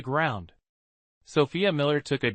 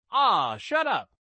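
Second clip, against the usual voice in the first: put-on angry child; 7 semitones higher, slower than usual. Child fighting shouts back.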